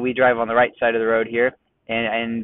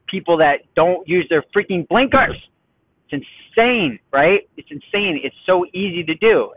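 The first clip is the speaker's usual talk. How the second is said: strained, higher, exasperated; tense exasperation; 3 semitones higher than usual. Real, not acted. Driver fuming over missing blinkers, exasperated. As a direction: let the frustration squeeze out. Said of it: "hear the tension in my vocal cords".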